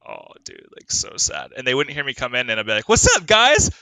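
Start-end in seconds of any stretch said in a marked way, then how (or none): 0.1-1.5 mock sad whisper. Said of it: "And I was like". 2.9-3.7 high loud sing-song hello; cutesy pet greeting. Retold or imitated. Owner greeting his sleeping cats, high and loud.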